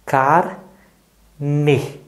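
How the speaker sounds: "Carne" dito devagar, em duas partes: car, ne; sílaba por sílaba. Shown as a demonstration. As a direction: separe "Carne" em car... ne, com o E final aberto em ê. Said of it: "Fecha o olho e vamos lá". ("Carne" silabado, com pausa entre car e ne)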